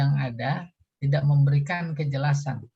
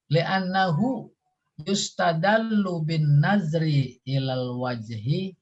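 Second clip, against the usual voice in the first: reciting Arabic; 2 semitones higher, slower than usual. Shown as a demonstration.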